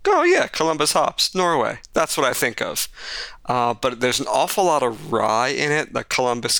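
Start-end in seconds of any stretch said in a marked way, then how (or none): 0.1-1.8 bright, raised "oh yeah" aha; mock realization. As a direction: play it like a sudden happy discovery. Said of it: "where I went".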